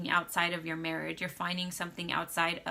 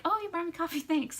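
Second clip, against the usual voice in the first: much higher, light casual husband voice with a laugh; offhand thanks; 11 semitones higher, faster than usual. Retold or imitated. Wife mimics husband's casual thanks for coffee, laughing lightly. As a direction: shrug it off, no big deal.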